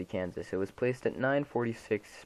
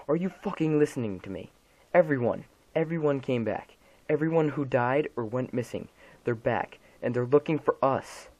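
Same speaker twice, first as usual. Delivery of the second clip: desperate crying shout; 5 semitones higher, 5 dB louder than usual. Acted. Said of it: "She's crying at this point".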